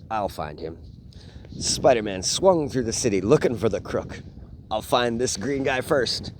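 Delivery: put-on reading a picture book aloud to kids; lively bedtime story read. Dad reading a Spider-Man book to his boys, storytelling voice.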